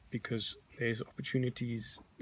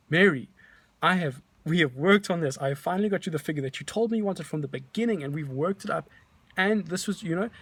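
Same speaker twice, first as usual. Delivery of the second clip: raised, pleading voice to a stalling client; louder, higher plea to make her see sense; exasperated appeal; 4 semitones higher, 4 dB louder than usual. Retold or imitated. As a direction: push hard, voice climbing in frustration. Pleading with reluctant seller Mary.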